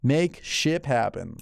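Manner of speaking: sponsor read with slow, measured emphasis; podcast host ad read. Acted. Reads a sponsor ad.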